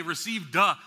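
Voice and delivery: "received" with the final d as a separate "duh"; exaggerated past-tense ending. Shown as a demonstration. Preacher showing his odd emphasis, "received" ending in a separate "duh". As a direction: detach the last sound of "received" into its own syllable. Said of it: "I'm not emphasizing the, the, the word simply to say".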